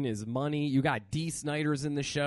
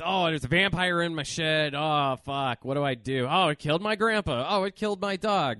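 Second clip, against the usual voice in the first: mocking the movie's character; 3 semitones higher, 5 dB louder than usual. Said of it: "it's, it's".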